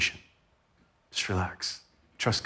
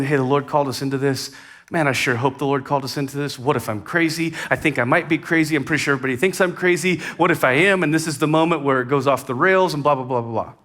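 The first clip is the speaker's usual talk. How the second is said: anxious spiral. Retold or imitated. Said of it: "I was terrified".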